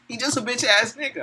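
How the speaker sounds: high, jeering put-down; mocking repeat. Real, not acted. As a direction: toss the insult up high.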